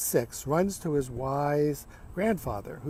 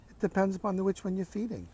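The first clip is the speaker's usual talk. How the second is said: higher, softer, kindly explanation; gentle grandfather; 5 semitones higher, 3 dB quieter, faster than usual. Acted. Grandfather bending over to the boy, gentle reply. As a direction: let a child in on it gently. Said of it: "bends over gently and says".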